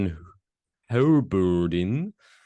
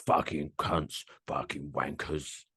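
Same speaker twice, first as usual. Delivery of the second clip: a hint of a surly growl; mock grouch, mutter the insults; Roy Kent impression; 2 semitones lower than usual. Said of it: "Good impression".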